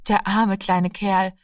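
langsam und mitfühlend; bedauernd. Acted. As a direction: leise Mitleid zeigen. Mutter bedauert den Jungen. (langsam, mitfühlend wiederholt)

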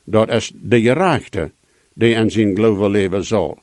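"gerechte" lifted, the rest falling away; stress on GERECHTE. Shown as a demonstration. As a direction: put the weight on "gerechte", let the rest drop. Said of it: "de betoning op de gerechte".

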